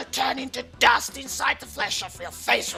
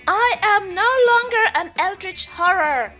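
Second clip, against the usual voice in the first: higher, louder monster scream; 7 semitones higher, 9 dB louder than usual. Acted. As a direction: scream it out, strained and shrill. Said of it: "it is very hard to scream with this voice".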